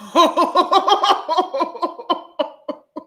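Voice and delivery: long, high, loud peal of laughter; helpless laughter. Real, not acted. Overcome by her own gossip, laughing helplessly. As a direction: laugh uncontrollably until it trails away.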